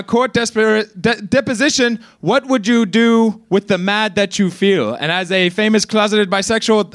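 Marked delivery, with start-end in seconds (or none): 2.2-4.9 lightly voiced sing-song children's host; a hint of a creepy, gentle TV host; mild mock sing-song voice, barely shifted; creepy sing-song Mister Rogers. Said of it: "in your sing-song, super creepy voice".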